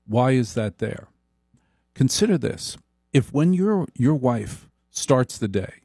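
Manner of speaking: ordinary talk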